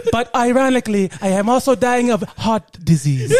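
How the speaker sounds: put-on African accent, proud then matter-of-fact. Villager boasting of lion's heart, African accent. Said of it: "got to do that accent".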